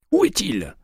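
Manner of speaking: high, loud furious yell; yelled question. A narrator's reading. McCaleb grabbing the clerk by the shirt, yelling. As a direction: shout it right in his face. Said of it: "hurla-t-il".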